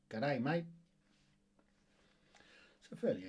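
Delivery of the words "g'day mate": put-on jokey Australian greeting accent; Aussie accent. Quiz host showing off his put-on Australian accent. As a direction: greet them in a light mock Aussie accent. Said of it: "Did you like my Aussie accent there?".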